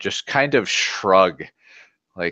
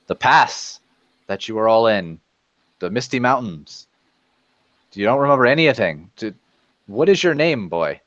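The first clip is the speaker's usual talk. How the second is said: puzzled dwarf questioning; 2 semitones higher than usual. Acted. Wari questions the stranger.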